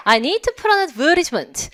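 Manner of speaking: "advertisement" as ad-VER-dis-ment; Australian "advertisement" with flapped t and short "is"; Australian pronunciation. Shown as a demonstration. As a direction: stress VER in "advertisement", soften the t. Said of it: "호주 발음은요?".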